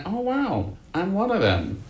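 excited. Retold or imitated. Retold realization of belonging.

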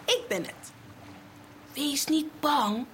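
steady, reassuring and calm; Jesus calming his frightened friends, calm and clear; gentle reassurance. A narrator's reading. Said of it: "Rustig en helder".

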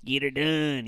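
redneck drawl catchphrase; Larry the Cable Guy. Acted. Co-host imitating a comedian's gimmick, in Southern drawl. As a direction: put on a gimmicky Southern accent. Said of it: "Have you talked to Larry the Cable Guy lately?".

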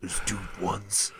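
slow, soft cowboy drawl. Pretend. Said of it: "in, like, a cowboy voice?".

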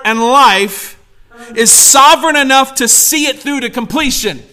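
slow, punched preacher's declaration; emphatic preaching. Real, not acted. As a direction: drive each phrase home slowly.

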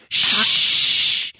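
whispered shh; shushing. Real, not acted. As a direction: hush sharply. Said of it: "Why are you whispering?".

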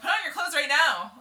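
loud high scream. Retold or imitated. Ordering a stripped man to dress, loud scream. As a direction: scream it at him. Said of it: "I was screaming at him".

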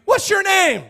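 high, loud acted demand; shouted challenge. Hebrews questioning Moses about God, shouted challenge.

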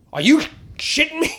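high incredulous squawk as the owner; mock disbelief. Club owner to comic, high incredulous outburst. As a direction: play the club owner, aghast. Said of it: "He goes".

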